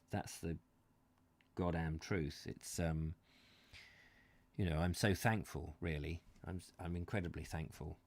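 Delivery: quiet, choked-up gratitude; getting emotional. Real, not acted. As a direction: hold back the tears as you thank them. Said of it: "I'm getting all, uh, emotional".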